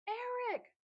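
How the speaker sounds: high, loud shout of a name; hailing a friend loudly. A narrator's reading. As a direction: call Eric from far off. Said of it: "Frederick shouted".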